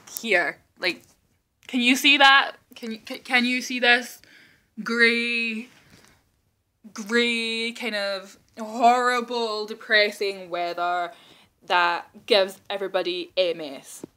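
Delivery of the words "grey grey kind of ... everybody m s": mock dramatic gloom. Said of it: "Okay, that was a bit dramatic".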